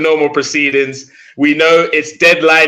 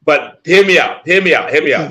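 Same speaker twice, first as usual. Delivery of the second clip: holding back laughter, voice high; barely keeping a straight face; trying not to laugh; 4 semitones higher, 3 dB louder than usual. Real, not acted. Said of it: "I'm trying not to laugh".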